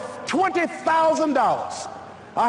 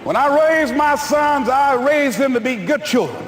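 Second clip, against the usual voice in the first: his mother's voice; 3 dB louder than usual. Retold or imitated. Radio spot, mother asks listeners to vote for her son, proud and loud. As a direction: speak as a proud old mother asking for votes. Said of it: "I had my mother say".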